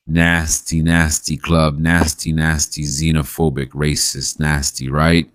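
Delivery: furious list of insults; angry rant. Real, not acted. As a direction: spit the words out in disgust.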